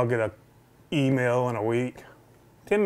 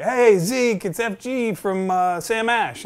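higher, upbeat phone greeting in imitation; imitated friendly store rep; 8 semitones higher, slower than usual. Store rep phoning a customer, imitated higher friendly greeting. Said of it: "He's like".

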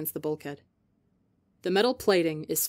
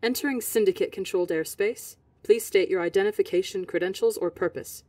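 sweet voice. Acted. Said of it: "a sweet voice filters out of the speakers".

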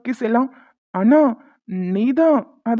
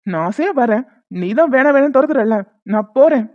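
staged angry breakup. Pretend. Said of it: "சண்டை போடுற மாதிரி".

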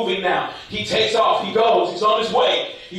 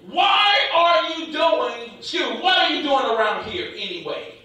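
stretched-out, indignant opening, then falling; angry demand; 3 semitones higher than usual. Acted. Older brother challenging David at the battle, angry. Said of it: "gets angry".

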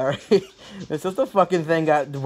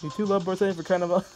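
quick, higher mocking repeat of the line; fast mock reread; 4 semitones higher, faster than usual. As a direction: rattle the line off fast to tease it. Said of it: "They're not lovebirds".

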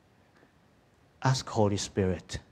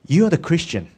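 preacher; 8 semitones higher, 8 dB louder than usual. Retold or imitated. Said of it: "The preacher is saying".

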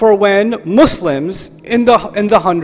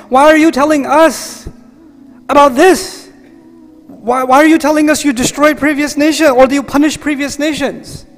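a hint of a puzzled companion asking; raised, earnest questioning to God; lightly voiced Sahabi asking why; companion's plea; 4 semitones higher than usual. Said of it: "the Sahabi listening to this".

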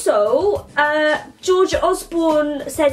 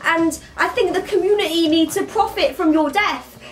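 lightly acted prince, raised pitch; a higher mock-threatening voice; Prince William; 4 semitones higher than usual. Playing the prince threatening Scar, slightly higher mock threat. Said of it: "William would be like".

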